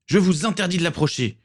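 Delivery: beaucoup plus aigu, rugi avec défi; rugissement. A narrator's reading. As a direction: rugir une interdiction. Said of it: "rugit l'adolescent". (l'adolescent rugit aux pirates, aigu et furieux)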